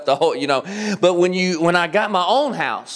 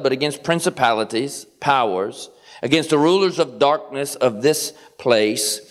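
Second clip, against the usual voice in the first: scripture reading. Acted. Preacher reads Ephesians to the church, solemn and measured. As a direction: read it out like the Word itself.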